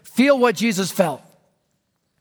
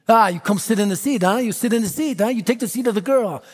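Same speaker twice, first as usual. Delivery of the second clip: pushy big guy; faster than usual. Acted. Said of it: "he starts pushing me".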